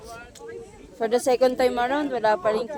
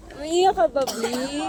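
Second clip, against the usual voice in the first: teasing; 3 semitones higher than usual. Real, not acted. Teasing friend crying from cold.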